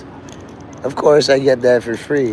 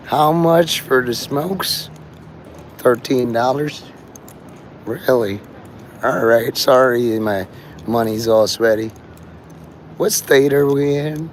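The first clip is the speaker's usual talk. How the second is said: put-on slow-talking Southern girl. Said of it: "She talks very slow".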